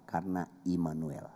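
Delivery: breathy hushed whisper; whispered reverently. Real, not acted. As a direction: drop to a whisper on the name. Sermon climax, hushed.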